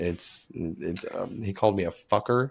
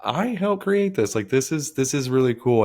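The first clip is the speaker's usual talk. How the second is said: proud wonder; 5 semitones higher than usual. Retold or imitated. Parent watching his kid's first T-ball hit, higher and amazed. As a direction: marvel at your own kid's hit. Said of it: "you're just like".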